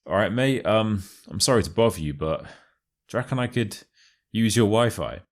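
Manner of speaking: hesitant, apologetic request to a mate; very polite. Retold or imitated. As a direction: ask a favour politely, pausing awkwardly. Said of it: "very politely say".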